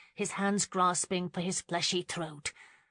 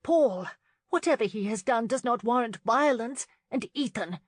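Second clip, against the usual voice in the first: high, louder sharp rebuke; snapping; 4 semitones higher, 4 dB louder than usual. A narrator's reading. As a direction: scold both men sharply. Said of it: "she snapped".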